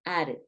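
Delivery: soft "added" with an R-like D; D sounded like R. Shown as a demonstration. Teacher echoes the example for learners, "added" with D as R. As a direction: tap the DD in "added" like a Spanish R. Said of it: "Tiende esa D repetida a ejercer".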